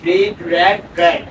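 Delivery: long ee in the first "read", short e in the next two; same spelling, different sounds. Shown as a demonstration. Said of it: "বানান সব same থাকবে". ("read, read, read" জোরে রীড, রেড, রেড)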